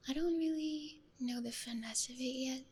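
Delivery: hushed, close-mic ASMR voice. Real, not acted. Streamer experimenting with an ASMR microphone, talking quietly. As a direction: talk gently and quietly into the microphone. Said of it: "I'm just talking a little quieter".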